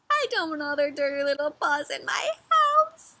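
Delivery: whiny grumble at ordinary volume; grumbling complaint. Acted. Bear complains about visitors, second take.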